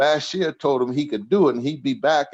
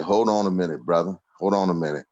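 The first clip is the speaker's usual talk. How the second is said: a hint of a stern boss, pitched lower; mock stern reply; 5 semitones lower, faster than usual. Speaker's stern reply voiced.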